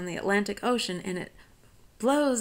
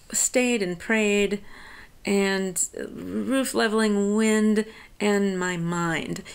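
slow, each rhyme word "stayed", "prayed", "wind", "mind" leaned on; stressing the rhymes; slower than usual. Shown as a demonstration. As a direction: hit every rhyming word deliberately and slowly. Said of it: "emphasis on the rhyme".

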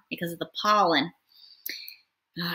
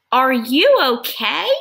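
concerned voice; 4 semitones higher, 5 dB louder, slower than usual. Acted. Piggy asks elephant, worried.

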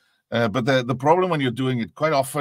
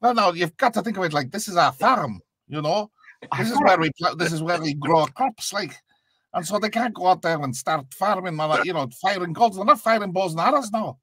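put-on Irish accent, slightly higher; lightly put-on Irish fisherman; Irish fishermen; 5 semitones higher than usual. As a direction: voice an Irish fisherman making his case. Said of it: "Irish fishermen".

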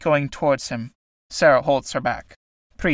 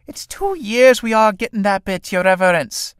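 whining; 6 semitones higher than usual. A narrator's reading. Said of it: "Sarah, whining".

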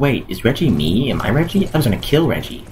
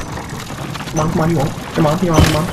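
taunting; 7 semitones higher than usual. Acted. Taunting the dummy again.

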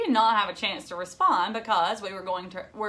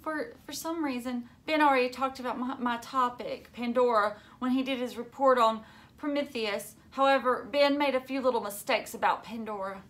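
quivering voice; 4 semitones higher than usual. Acted. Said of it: "She began in a quivering voice".

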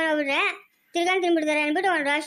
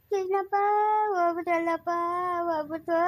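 tearful wailing. Acted. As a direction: wail helplessly to a neighbour. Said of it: "ನಿಲ್ಸಮ್ಮ ಕಣ್ಣೀರ". (ಅಳುತ್ತಾ ಗೋಳಾಡುವುದು)

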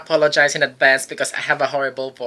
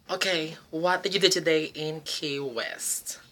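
whisper; 8 dB quieter than usual. Acted. Host whispering question to guest.

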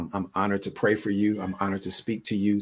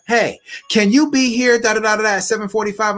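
mock casual asker; 12 semitones higher, 7 dB louder than usual. Mocking a casual message request.

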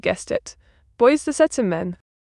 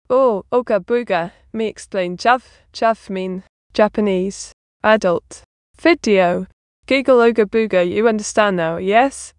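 light caveman grunt-talk, broken words. Pretend. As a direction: play a dim caveman, only lightly voiced. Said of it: "like a caveman".

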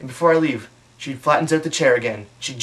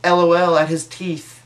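higher, louder, slow spelled-out mockery; mock dentist typing; 4 semitones higher, 5 dB louder than usual. The dentist messaging her buddies, mocking my teeth. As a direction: read out her snarky message slowly. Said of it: "instant messaging with all her dentist buddies".

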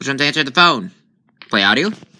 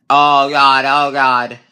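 louder frightened oh god; startled by the spirit; scared gasp; 6 dB louder, much slower than usual. Real, not acted. Spooked player in the dark map, scared.

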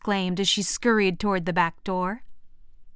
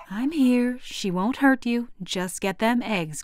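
soft; 3 semitones higher than usual. Acted. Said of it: "Grandma said softly".

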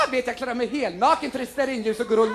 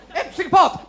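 high loud panicked cry; B-movie fright; mock terror; 6 semitones higher, 5 dB louder than usual. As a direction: cry it out hammed-up scared.

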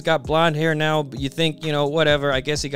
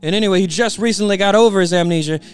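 excited rambling; 3 dB louder than usual. Retold or imitated. Treble excitedly explains.

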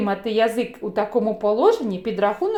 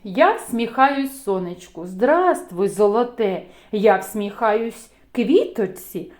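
poem recital; 2 semitones lower than usual. Acted. Teacher recites greeting poem.

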